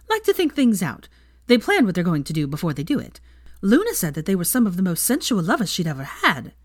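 excited. Acted. Excited gossip.

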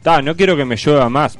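complaining. Retold or imitated. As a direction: grumble like a fed-up neighbour. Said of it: "El que se queja dice".

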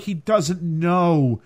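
slow, mock anguished aside; sad viewer. Viewer moaning at the screen over the dog, slow mock sorrow. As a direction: drag it out in mock dismay. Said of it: "And you're like".

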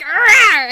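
loud pretend cat roar; playful roar. Scourge is back in camp, loud playful roar.

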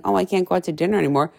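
quick half-hearted mock whine. Coach mocking a whiny listener, light quick whine. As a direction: toss off a light imitation of a whiny client. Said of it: "Don't get all whiny on me saying".

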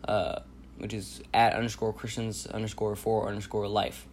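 congested, blocked nose voice; talking through a stuffy nose. Real, not acted. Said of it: "I'm sorry if I sound, like, congested".

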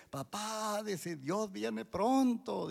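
high, drawn-out imitation of daughter; lightly voiced eager daughter; retold earnest announcement. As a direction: stretch it out high, like breaking news to dad. Daughter's urgent news retold to father.

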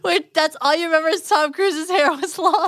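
high-pitched disbelief; incredulous question. Real, not acted. Host questions co-host's only memory of film, incredulous.

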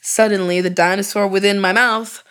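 mock-serious erotica narration over music; deadpan romance-novel reading; dramatic story reading. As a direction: read it like a steamy audiobook, straight-faced. Reads story aloud.

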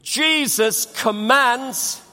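Jesus commands drawn out slowly, each word weighted; slow emphatic call. Shown as a demonstration. Preacher leading the church in a slow firm refrain. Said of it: "Say it with me".

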